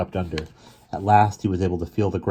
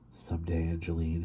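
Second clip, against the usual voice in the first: whisper; 9 dB quieter than usual. Acted. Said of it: "he whispered".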